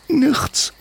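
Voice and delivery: put-on a short, very high child's voice; curt little girl. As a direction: clip it off like a sulking kid. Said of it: "antwortete Sventlani knapp".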